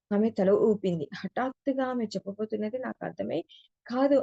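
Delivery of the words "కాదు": a sharp, higher cry of denial; short retold shout of refusal; loud cry. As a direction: blurt out no, louder and higher. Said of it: "అని బిగ్గరగా అరిచాను".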